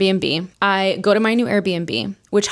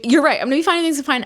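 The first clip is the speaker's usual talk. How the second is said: high mock-tearful voice; hysterical crying, imitated; 6 semitones higher, faster than usual. Crying on the phone to her friend, mock hysterical agreement. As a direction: pitch it up like a tearful self-reassurance. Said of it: "I'm, like, hysterically crying".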